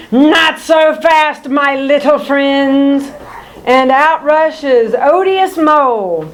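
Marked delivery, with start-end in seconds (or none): 0.1-3.1 snarl. Acted. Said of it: "a voice snarls".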